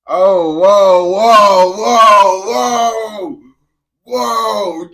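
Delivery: loud, rising string of whoas; real high, loud outburst; alarmed shouting. Real, not acted. Alarmed reaction to a reply.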